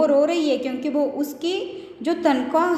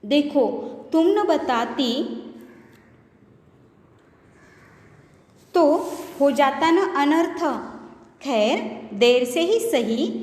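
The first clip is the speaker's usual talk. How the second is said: mock shout. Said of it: "ज़ोर से चिल्लाते हैं".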